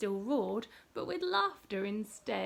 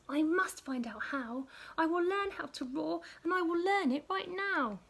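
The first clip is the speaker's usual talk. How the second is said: determined mouse; 5 semitones higher than usual. Acted. Mouse resolving.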